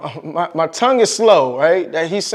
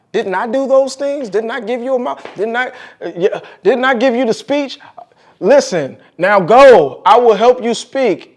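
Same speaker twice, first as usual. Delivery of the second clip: higher, louder insistent voice of God; God pressing Moses; 5 semitones higher, 4 dB louder than usual. Acted. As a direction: press him with each question. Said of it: "Is it not I, the Lord?".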